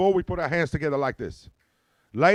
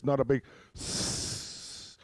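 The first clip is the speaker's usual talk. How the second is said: snake hiss; 6 dB quieter, much slower than usual. Shown as a demonstration. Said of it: "hiss like a snake".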